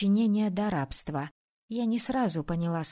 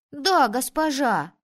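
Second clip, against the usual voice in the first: put-on obedient boys; 4 semitones higher, 5 dB louder, slower than usual. Boys obey the lady.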